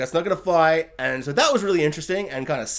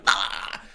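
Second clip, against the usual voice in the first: mock scream; 7 semitones lower than usual. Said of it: "a character screaming, going".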